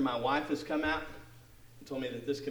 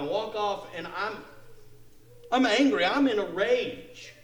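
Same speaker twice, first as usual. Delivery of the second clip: louder mock outburst, ending slow; re-enacted anger; 7 semitones higher, 5 dB louder, slower than usual. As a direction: act out muttering rage at yourself. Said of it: "I'm angry, and I'm mad".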